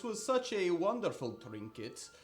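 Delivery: high, loud salesman pitch; merchant talking it up. Acted. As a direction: oversell the trinket like a sly merchant. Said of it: "He begins to talk this up".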